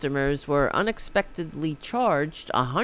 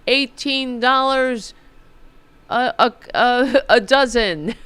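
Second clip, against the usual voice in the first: mock voter; 6 semitones higher, 6 dB louder than usual. Mocking voters' wishes.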